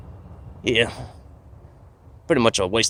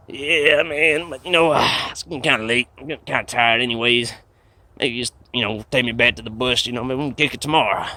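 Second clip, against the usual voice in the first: nervous casual pleading; 4 semitones higher than usual. Pretend. Trying to play it off.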